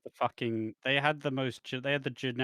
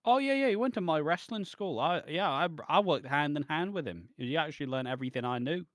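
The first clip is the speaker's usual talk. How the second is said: higher, eager put-on bragging; mock boast; 4 semitones higher than usual. Trainer claiming a famous pupil as his own, mock boast. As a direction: lightly mimic someone claiming the credit. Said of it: "that's what you say when someone famous comes through".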